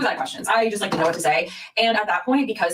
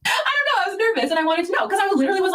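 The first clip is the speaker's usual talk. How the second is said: nervous high; 12 semitones higher, faster than usual. Real, not acted.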